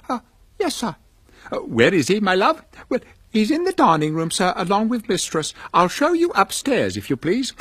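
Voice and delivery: put-on a light, brisk young servant; young housemaid. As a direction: housemaid answering the old gentleman at the door, high and quick. Young housemaid answers Scrooge.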